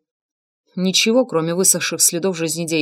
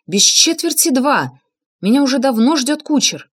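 shout; 6 semitones higher, 4 dB louder than usual. A narrator's reading. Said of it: "крикнул я".

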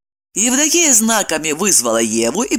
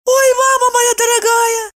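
high frightened squeak. A narrator's reading. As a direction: squeak it out in alarm. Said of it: "пискнула Евдокия". (пискнуть высоким голосом)

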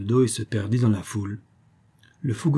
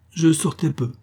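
evasive tone; 5 semitones higher than usual. Acted. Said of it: "fit l'altesse d'un ton évasif".

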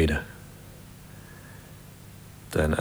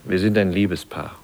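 firm retort; 2 semitones higher, 5 dB louder than usual. Acted. Lover defends them to stranger.

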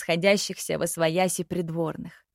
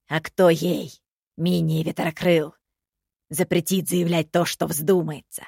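smirking; 2 semitones lower than usual. Acted. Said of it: "усмехнулся Хайди".

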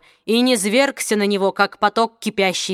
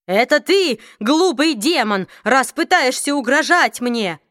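trembling defiance; 3 semitones higher than usual. Acted. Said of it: "однако голос у него дрожал".

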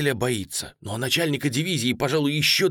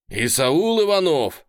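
loud, slow, higher call of the name; shout; 5 semitones higher, 6 dB louder than usual. A narrator's reading. Commander shouting at the lagging captain. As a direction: call him out firmly. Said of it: "кричит командир".

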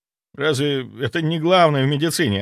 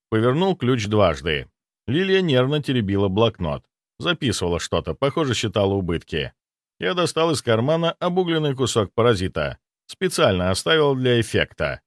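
ordinary delivery

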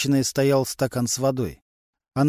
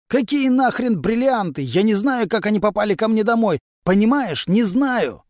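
loud and higher, pleading in panic; desperate yelling; 8 semitones higher, 5 dB louder than usual. A narrator's reading. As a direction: shout your innocence at the interrogator. Accused man desperately denies. (громкий отчаянный крик)

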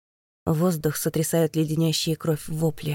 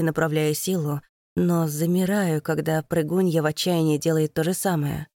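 plain reading voice

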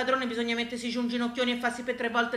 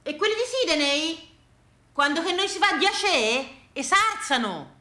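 Pompilio marvelling; 5 semitones higher than usual. Retold or imitated. Pompilio showing Gina Sydney on the globe, high amazed voice. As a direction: call to Gina in wonder over the globe. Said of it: "e diceva".

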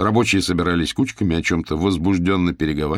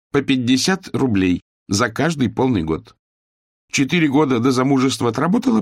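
put-on higher, confident older woman; mistress laying out terms; 5 semitones higher than usual. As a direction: announce the plan like a factory owner. Owner voiced.

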